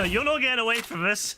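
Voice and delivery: gleeful laughing threat; laughing taunt. Real, not acted. Chasing an enemy player.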